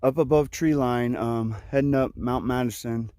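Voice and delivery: breathless, panting between phrases; winded from a steep climb; out of breath. Real, not acted. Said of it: "you can tell I'm out of breath".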